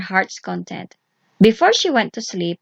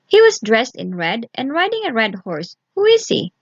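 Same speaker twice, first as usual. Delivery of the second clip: put-on curious young girl; 3 semitones higher than usual. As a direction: ask eagerly, a bit quicker. Vasilisa asks.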